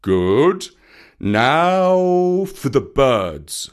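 loud, slow bear schoolmaster; approving teacher Baloo. A narrator's reading. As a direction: set the next test with a long-drawn 'now'.

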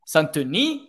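"Santoni" with a questioning rise at the end; unsure, rising "Santoni"; trying pronunciations. Shown as a demonstration. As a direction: ask "Santoni" as a last guess, rising. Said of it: "how do we actually say your name".

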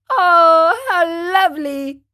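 loud, high burst of joy; joyful cry. Acted. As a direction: leap up with delight. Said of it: "cried Pinocchio, jumping up with joy".

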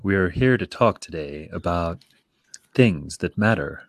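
a hint of a calm public radio announcer; public radio host. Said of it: "American National Public Radio voice".

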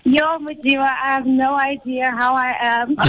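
breathless, panting between words; short of breath, laughing it off. Real, not acted. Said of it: "I'm even out of breath".

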